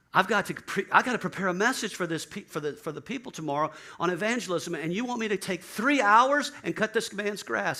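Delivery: high, loud, incredulous complaint; exasperated protest. Retold or imitated. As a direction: protest to God that this is absurd. Pastor protesting to the Lord.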